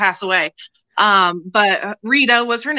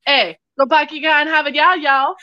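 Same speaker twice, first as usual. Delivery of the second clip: mock drawl; 5 semitones higher than usual. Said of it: "what I had written in chat was".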